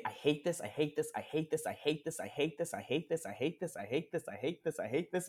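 lightly whiny, repeated quietly; mock whiny repetition. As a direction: whine it over and over, half-mocking. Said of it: "they say".

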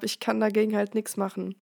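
talking with a blocked nose; a cold, nose all stuffed up; stuffy nose. Real, not acted. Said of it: "so eine verschnupfte Stimme".

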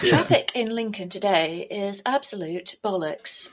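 deadpan spoof traffic report; mock traffic announcer. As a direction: announce it like local travel news. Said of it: "I absolutely recorded a radio jingle".

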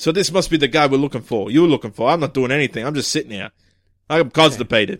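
put-on gruff-chief delivery; irritable police chief. Chief grumbling to his detectives about being stuck, irritable.

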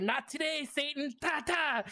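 sassy. Retold or imitated. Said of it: "She's like".

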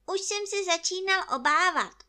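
high, loud bear voice; worried bear. Acted. Narrator voices Pooh.

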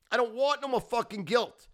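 loud but coming down from the peak; still ranting. Real, not acted. Repeat of rant, calming slightly.

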